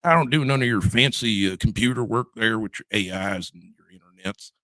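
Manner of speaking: lightly put-on Ohio farmer accent; folksy tractor-driver accent, lightly hammed up; mock rural Ohio accent. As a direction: dismiss newfangled tech in a country accent. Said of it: "I'm using that accent".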